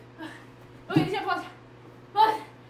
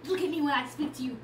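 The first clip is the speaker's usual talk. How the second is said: mock god speech; 8 semitones lower than usual. Scrappy challenger declares himself god of gods, mock-grand. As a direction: play the self-important god, lightly.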